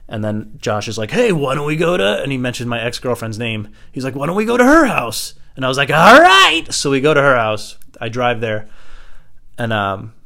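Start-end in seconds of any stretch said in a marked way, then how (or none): 1.1-2.2 higher-pitched imitated urging; eager suggestion. Friend's eager suggestion, acted. 4.1-5.3 high, louder imitated urging; eager suggestion. Friend's eager suggestion, acted. 5.9-6.6 high, loud whooped reply; eager agreement. Retold or imitated. Drunken eager agreement, acted.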